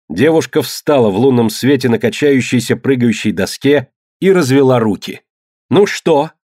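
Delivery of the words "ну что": a defiant, higher call. A narrator's reading. Phryne challenges Quintus from the plank, defiant high call. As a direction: dare him from the plank. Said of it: "крикнула она".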